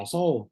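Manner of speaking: Asau said as oso; over-round Asau into oso; wrong oso sound. Shown as a demonstration. Teacher demonstrates the wrong reading. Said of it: "tak boleh macam".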